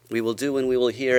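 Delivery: fast, loud, rising proclamation; exclaimed vow. Retold or imitated. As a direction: call it out joyfully.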